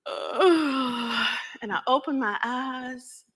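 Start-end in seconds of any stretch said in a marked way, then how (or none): 0.0-1.3 sleepy stretching yawn. Acted. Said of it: "I yawned".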